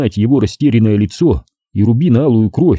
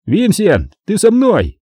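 boss calling out; 10 semitones higher, slower than usual. A narrator's reading. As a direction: summon your man. Gangster calls his man. (зовёт подручного)

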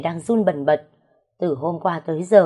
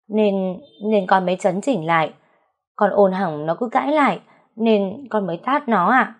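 stammering; 2 semitones higher than usual. Acted. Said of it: "lắp bắp nói".

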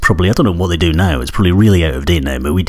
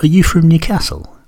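higher, mock schoolmate's question; schoolmates asking; 11 semitones higher than usual. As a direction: imitate the curious kids at school, pitched up. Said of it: "they went".

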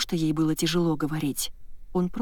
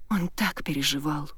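usual speaking voice

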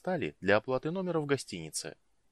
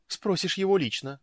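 high, louder dismissive retort; snorted retort; 11 semitones higher, 5 dB louder than usual. A narrator's reading. Woman brushes off the mage's question, snorting retort. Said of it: "фыркнула Иоланта".

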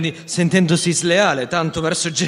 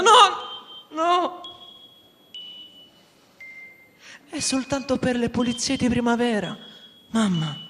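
calling out; 9 semitones higher than usual. Acted. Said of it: "alla finestra gridando".

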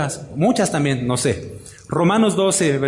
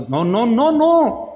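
emphatic no; 7 semitones higher, 3 dB louder, much slower than usual. Real, not acted. Pastor rejecting wife's correcting.

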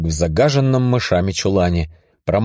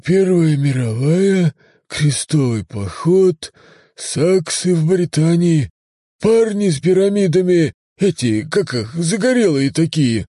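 musing otherworldly voice; 10 semitones higher than usual. Acted. Voice listing eras.

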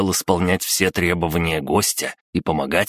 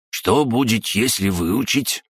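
high, slow puzzled crab voice; puzzled drawl; 5 semitones higher than usual. A narrator's reading. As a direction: drawl it out in confusion. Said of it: "озадаченно протянул Крабогном". (озадаченный протяжный голос краба)

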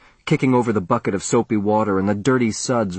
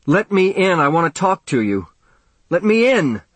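much higher, louder frantic yell; shouting; 8 semitones higher, 4 dB louder than usual. Acted. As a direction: pound on the door and yell to be let in. Banging on mother's locked door.

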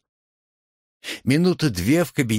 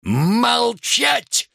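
roaring bark. A narrator's reading. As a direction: bellow it at him full force. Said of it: "рявкнул".

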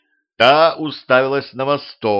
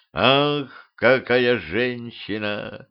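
dreamy; much slower than usual. Acted. Полковник любуется королевой, медленно и мечтательно. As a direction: savour it like a smitten man. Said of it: "мечтательно проговорил полковник".

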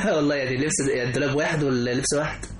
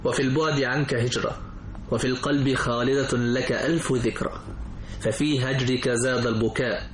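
slow measured poetic recital; poem recitation; slower than usual. Acted. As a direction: recite each line with pauses.

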